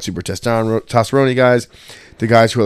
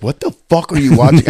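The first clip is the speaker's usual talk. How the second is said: mock alarmed girlfriend; 6 semitones higher, 5 dB louder than usual. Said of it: "Steph was like".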